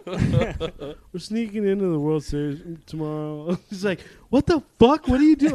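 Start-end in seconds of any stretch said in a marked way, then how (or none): 0.1-3.6 slow, laughing through the words; giggling as he admits the plan; laughing confession. Retold or imitated. Telling sister the plan, laughing. 4.3-5.5 much higher, loud outraged yell; a sister's stunned high yell; shocked sister. Retold or imitated.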